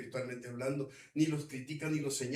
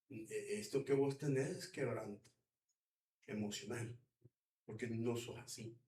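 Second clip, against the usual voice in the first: soft king's diagnosis; 3 semitones lower, 6 dB quieter than usual. Acted. King diagnosing, softly voiced.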